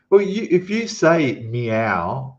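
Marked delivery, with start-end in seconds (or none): 1.4-2.4 slow "meow" as mee-ow; "meow" in two stretched parts, M sounded; Thai-sounding meow. Shown as a demonstration. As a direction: draw out "meow" like a Thai word. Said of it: "it sounds Thai".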